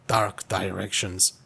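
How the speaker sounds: put-on Scottish self-justification; amateur Scottish accent. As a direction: argue your case in mock Scottish. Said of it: "I could probably try a bit of Scottish".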